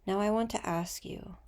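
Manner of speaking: gentle meditation guide, unhurried with long pauses; guided meditation. Acted.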